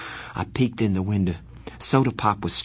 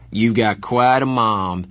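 Dally's voice; 5 dB louder, slower than usual. Acted.

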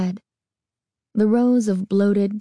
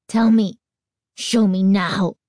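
urgent demand; 3 dB louder than usual. Acted. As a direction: insist on it, slowing down. Desperate plea to owner.

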